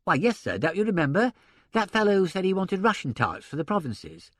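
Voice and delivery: a hint of a respectful secretary; mild, polite helper voice; deferential secretary. Secretary Horrocks answering.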